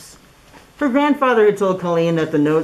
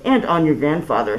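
pleading; 2 semitones higher than usual. Acted. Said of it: "said Mister Biv pleadingly".

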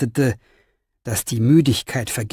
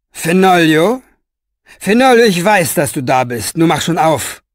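louder, higher call that settles; calling through a door; 3 semitones higher, 5 dB louder than usual. Acted. Orpheus calls to Fenoglio through the closed door, insistent. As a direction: call insistently for him to open up.

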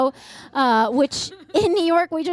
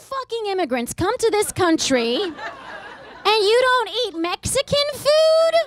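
mock fury; 9 semitones higher than usual. Niece ranting at her Iranian aunt, mock fury with laughs. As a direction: fake anger through laughter. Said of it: "I was so mad".

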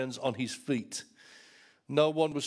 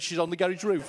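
laughing punchline; 3 semitones higher than usual. Real, not acted.

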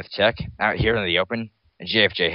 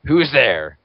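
a high, louder startled squeak; 6 semitones higher, 6 dB louder than usual. Acted. Startled by a rustle while hiding, high squeak. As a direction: squeak it out, caught off guard. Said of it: "squeaked out J F J".

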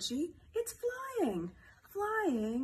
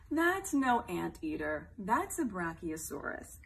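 mock correcting; 5 semitones lower, slower than usual. Correcting, slower and lower.

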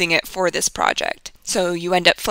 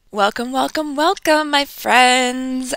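excited greeting; 4 semitones higher, slower than usual. Real, not acted. Host greets podcast listeners.

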